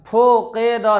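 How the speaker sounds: फोकेदा with 'o' and 'e' for 'u' and 'i'; majhul, wrong way. Shown as a demonstration. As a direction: open and lengthen the vowels in फोकेदा. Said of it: "नहीं". (फोकेदा, मजहूल आवाज़ में)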